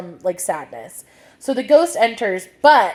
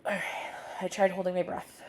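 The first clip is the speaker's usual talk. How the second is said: quick whispered aside; real whisper between hiccups; 4 semitones lower, 11 dB quieter, faster than usual. Real, not acted. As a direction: breathe it out softly and fast.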